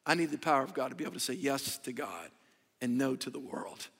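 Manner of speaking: soft, low, earnest near-whisper; hushed preaching voice; hushed confession. Acted. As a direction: drop it down to almost a whisper. Intimate confession to congregation.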